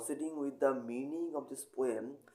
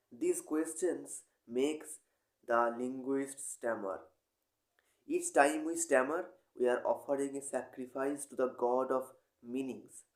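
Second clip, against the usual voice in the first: measured poetry recitation with long pauses; poem reading. Acted. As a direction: read the poem deliberately, pausing between phrases. Reads a poem aloud.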